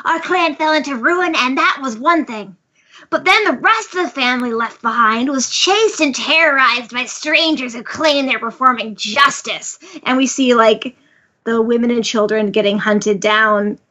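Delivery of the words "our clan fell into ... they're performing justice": lightly hammed-up villain telling his backstory; villain monologue. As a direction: monologue theatrically as a wronged villain. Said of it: "basically monologuing here".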